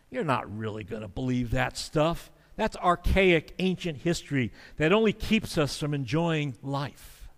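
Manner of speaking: a touch of dismissive sneer; cynical mockery. The culture scoffing at believers, mildly condescending. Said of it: "a mocking, condescending, cynical attitude that says".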